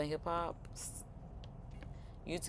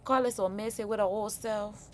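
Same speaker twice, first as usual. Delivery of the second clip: lightly put-on New Orleans voice; a hint of a gossip impression; slightly lifted playful imitation; Tokyo; 3 semitones higher than usual. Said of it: "in my best Tokyo voice".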